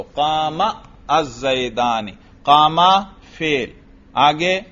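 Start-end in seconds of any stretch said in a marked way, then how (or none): 0.0-2.1 "قام الزیدانی" with a short a ending the first word; alif dropped. Shown as a demonstration. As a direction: say "قام" without a final long alif, then "الزیدانی". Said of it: "الف کو ختم کر دو". (الف ختم کر کے "قام الزیدانی")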